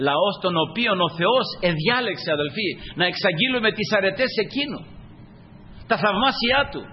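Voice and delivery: stretched-out, emphatic pulpit delivery; preaching. Real, not acted. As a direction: proclaim it with rising pitch.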